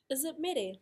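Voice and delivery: "Is it mere?" pitched high, doubtful; high questioning "Is it mere?"; questioning tune. Shown as a demonstration. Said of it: "running through mā te reo tuakana".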